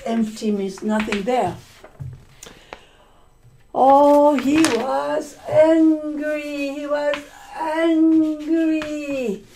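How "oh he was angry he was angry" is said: higher, slow, emphatic telling of his anger; dramatized anger. Acted. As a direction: act out his fury for the class, slowly. Teacher dramatizes the angry miser.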